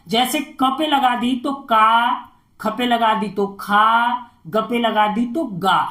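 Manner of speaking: का, खा, गा said slow with long आ at the end; matra sound demo. Shown as a demonstration. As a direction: stretch the long आ in का, खा, गा. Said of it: "आ का sound मिला के आएगा". (मात्रा की आवाज़ धीरे दिखाना)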